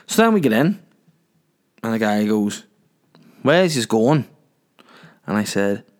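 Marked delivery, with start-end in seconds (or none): 3.4-4.3 country taxi driver. Retold or imitated. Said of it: "that's country folk".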